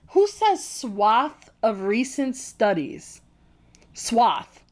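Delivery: slow, scornful "swath of recent studies"; mocking disbelief at the wording; incredulous mockery. Real, not acted. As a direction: drag the phrase out in disbelief.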